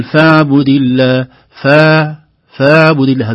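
فاعبد with the ain too soft and loose; loud فاعبد, ain let out too soft; wrong soft ain. Shown as a demonstration. Teacher showing the wrong way, too soft an ain. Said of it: "ولا نقول".

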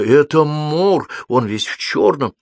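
high, drawn-out alarm, fully voiced; frightened whisper. A narrator's reading. Девочка увидела дядьку в чёрном, frightened whisper. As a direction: stretch it out in rising fright. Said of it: "испуганно зашептала девочка".

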